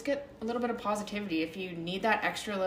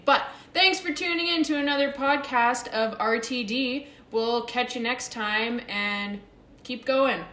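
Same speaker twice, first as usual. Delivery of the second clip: higher and louder cheerful outro; upbeat sign-off redo; 4 semitones higher, 4 dB louder than usual. Real, not acted. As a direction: nail the sign-off with energy. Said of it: "I just screwed up the ending".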